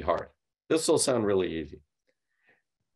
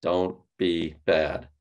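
scolding; 3 semitones lower, much slower than usual. Retold or imitated. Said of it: "We've been told since we were little".

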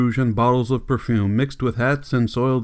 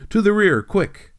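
sharply higher, hurried, panting command; breathless urgency; 9 semitones higher than usual. A narrator's reading. Madam rushes downstairs, urging the crowd out, breathless. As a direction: urge the crowd out, breathless and high. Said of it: "panting breathlessly".

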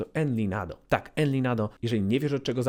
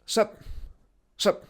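slangy street greeting; 9 semitones higher than usual. Shown as a demonstration. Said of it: "takie slangowe".

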